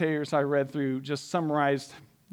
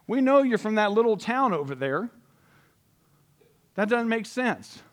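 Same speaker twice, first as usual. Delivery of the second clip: higher, louder mocking disbelief; scoffing crowd; 5 semitones higher, 3 dB louder than usual. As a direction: sneer at him like the doubting townsfolk. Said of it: "They're like".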